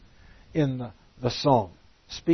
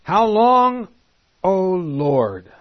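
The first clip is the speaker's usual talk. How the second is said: higher and louder, crying out to God; anguished cry; 6 semitones higher, 12 dB louder, much slower than usual. Acted. Preacher voices the martyrs crying to God, loud and high. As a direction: call it out as a desperate plea. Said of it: "Here's the first echo".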